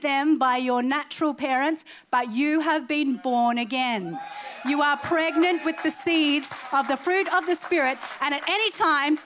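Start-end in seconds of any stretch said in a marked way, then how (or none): 2.1-9.2 shouted altar-call fervor; preaching at full force. Acted. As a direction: preach it out to the room.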